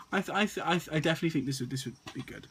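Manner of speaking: nervous stutter. Real, not acted. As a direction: stumble and restart words. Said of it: "I'm sorry if I'm stuttering a lot".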